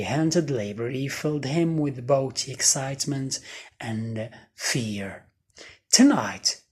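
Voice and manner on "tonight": breathy secret whisper, no voice. A narrator's reading. Boy whispers to himself about meeting the ghost, whispering. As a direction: whisper it to yourself like a plan. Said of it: "he whispered to himself".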